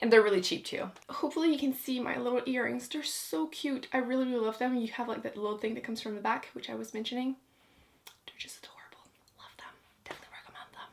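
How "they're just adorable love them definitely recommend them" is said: soft unvoiced whisper under the breath. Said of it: "I don't know why I'm whispering".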